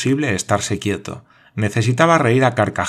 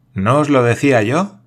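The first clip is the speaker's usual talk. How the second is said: laughing; 4 semitones higher, 6 dB louder than usual. A narrator's reading. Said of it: "dijo riendo el mayor".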